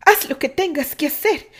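Candy asks her brother to set her shoulder, brave. A narrator's reading.

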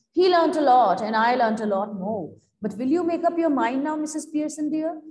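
lightly voiced loud, assertive character; Missus Fitzgerald. Fortune teller answering her neighbour, mildly loud and emphatic. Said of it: "In a loud voice she speaks".

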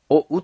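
お、う as the two halves of a diphthong; o-to-u glide. Shown as a demonstration. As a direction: show お moving into う. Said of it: "おが、お、うとなります".

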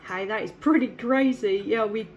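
usual speaking voice

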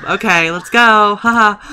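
giggling through words; laughing. Real, not acted. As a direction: laugh while talking. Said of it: "I'm laughing".

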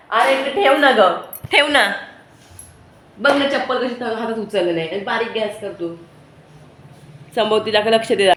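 high and loud, sharp telling-off; scolding shout. Real, not acted. Mother scolds her child about the slipper, high and loud.

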